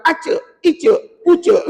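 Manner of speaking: "acak, icak, ucak" with a ch sound in place of j; wrong jim. Retold or imitated. Teacher imitating a past student, ch-sounding "acak, icak, ucak". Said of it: "jangan sampai bunyi gini".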